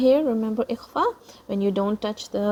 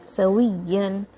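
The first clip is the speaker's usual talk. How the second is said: "سويا" with the doubled y slightly raised and prominent; stressed doubled ya. Shown as a demonstration. Teacher showing shadda on ya, emphasised y in "سويا". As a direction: lean on the ya in "سويا". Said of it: "raise the voice a little bit".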